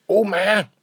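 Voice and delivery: high, loud cry for grandma; excited call. Acted. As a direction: call out at the bell. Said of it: "ruft Schnüpperle". (Schnüpperle ruft laut nach Oma)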